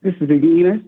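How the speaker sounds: put-on English accent. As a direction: introduce yourself in a mock English accent. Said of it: "call in with an English accent".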